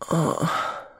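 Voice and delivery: soft breathy moan. Acted. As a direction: let out a hushed moan. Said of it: "I moaned".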